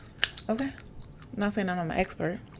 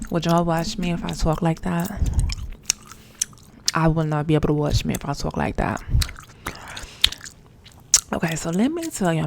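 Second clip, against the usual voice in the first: much louder, pushed voice; 8 dB louder than usual. Shown as a demonstration. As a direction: project it hard, almost shouting at the camera. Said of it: "I feel like that's pretty high".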